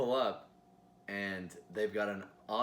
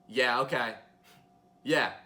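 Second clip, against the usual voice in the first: ghetto Paris voice; 2 semitones higher, 8 dB louder, slower than usual. Retold or imitated. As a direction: toss it off, sassy and loud. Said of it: "ghetto Paris voice".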